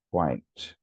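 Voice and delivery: "quite" dropped out as one falling syllable. Shown as a demonstration. Teacher taps the word out on knees, one-syllable "quite". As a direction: give "quite" just one beat, straight to the t. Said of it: "One syllable".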